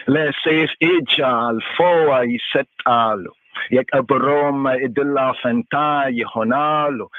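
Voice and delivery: loud, declaiming the verse in Amharic; scripture reading. Acted. Teacher reading the psalm to the class, loud recitation. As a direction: proclaim the psalm verse to the room. Reads verse ten aloud.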